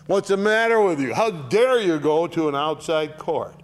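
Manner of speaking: how dare you, full of reproach; indignant scolding. Acted. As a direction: scold them like an exasperated father. Paul scolding the church.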